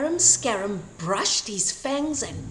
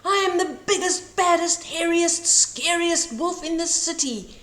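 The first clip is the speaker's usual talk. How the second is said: big boastful wolf call; boastful wolf bellowing his boast; calling out boastfully; 5 semitones higher, 4 dB louder than usual. A narrator's reading. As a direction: brag it out loud like a proud wolf. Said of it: "he called after them".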